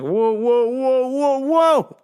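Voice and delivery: high rising whoa to halt her; mock alarm. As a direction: hit the brakes on her, hammed up. Stopping the pushy customer.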